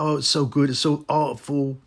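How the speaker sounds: mock gushing reviewer. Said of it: "They're going about".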